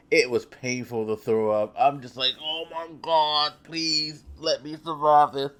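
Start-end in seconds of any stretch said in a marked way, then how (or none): 2.4-5.5 pleading higher, as if praying to survive; desperate prayer over the toilet; mock desperate plea. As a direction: beg God to let you live, half joking. Begging God while throwing up.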